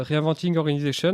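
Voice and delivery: English title in shaky English accent; French-accented English. Real, not acted. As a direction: say it in wobbly school English. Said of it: "j'ai un accent anglais qui est un peu bancal". (anglais bancal avec accent français)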